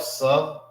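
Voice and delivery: Salachya broken into "sa... lakh... ya"; long gaps inside Salachya, rasped kh; syllable by syllable. Shown as a demonstration. Teacher separating the syllables, spaced-out Salachya. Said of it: "This is pronounced by itself".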